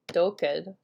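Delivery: "doked" with the first syllable accented; stress on first syllable. Shown as a demonstration. Teacher showing an irregular Dakota word, "doked" stressed on first syllable. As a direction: hit the start of "doked", unstressed second syllable. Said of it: "the accent is on the first syllable".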